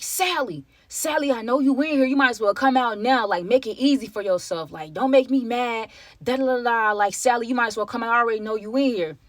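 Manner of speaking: lightly voiced thug calling out Sally; intruder calling out. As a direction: call through the apartment like a menacing intruder.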